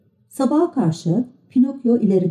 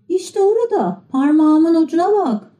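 pointing out to sea; old woman voice; 10 semitones higher than usual. A narrator's reading. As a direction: direct his gaze firmly.

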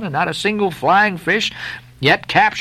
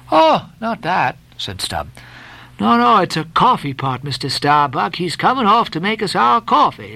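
lightly voiced Stubb; 3 semitones higher than usual. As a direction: tease the mate about the coffee pot.

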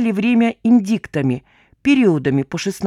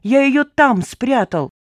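excited cry; 6 semitones higher, slower than usual. A narrator's reading. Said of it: "вскричал старичок".

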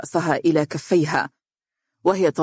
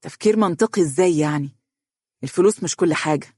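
understated disapproving objection; annoyed. Acted. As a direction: object with a touch of irritation. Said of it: "باستنكار وقال بضيق". (بضيق واستنكار خفيف)

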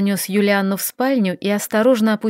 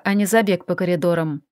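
ordinary delivery, nothing marked

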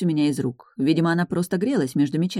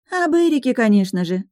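dreamy sigh; 8 semitones higher, 4 dB louder than usual. Acted. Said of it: "вздохнула Сузанна".

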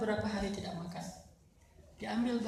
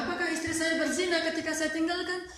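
raised, pleading question to the neighbours; anxious question; 7 semitones higher than usual. Retold or imitated.

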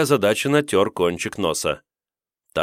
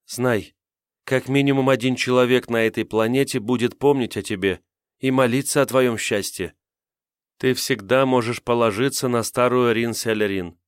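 put-on higher, solemn elderly woman; older woman voice; 4 semitones higher than usual. Old woman's solemn promise.

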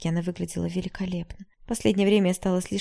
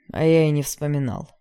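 sneering; 2 semitones lower, 7 dB louder than usual. A narrator's reading. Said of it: "оскаблился Игнат".

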